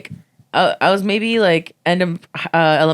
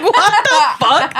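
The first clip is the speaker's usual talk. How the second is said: high, loud, drawn-out disbelief, laughing; hammed-up indignant cry through laughter; mock outrage; 11 semitones higher, 6 dB louder, much slower than usual. Retelling a cancelled party invite, high mock outrage. Retold outrage at being uninvited.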